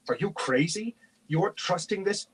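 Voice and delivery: high-pitched, rising disbelief; incredulous yell. A narrator's reading. Knight questioning his friend's trust, incredulous outburst. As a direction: protest incredulously, pitch climbing. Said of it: "he yelled".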